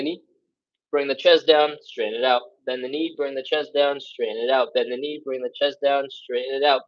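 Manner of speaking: rushed through. Shown as a demonstration. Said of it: "I went through those real fast".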